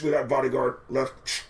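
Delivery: terse mock walkie-talkie report; mock operation radio. Lookouts reporting on the singer's movements, mock radio chatter. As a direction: report it like a covert team on radios. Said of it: "sounds as if it was an operation".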